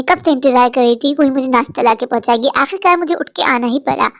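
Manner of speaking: a grumbling, bossy mother-in-law voice; hungry old mother-in-law grumbling; nagging mother-in-law. Acted. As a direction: grouse about the lazy bahus. Mother-in-law scolds absent daughters-in-law.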